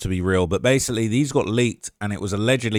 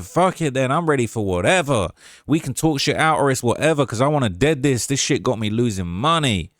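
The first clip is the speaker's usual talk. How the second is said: A rapper. Retold or imitated. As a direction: read the message in a loose Southern impression. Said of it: "if I can do the Quando voice".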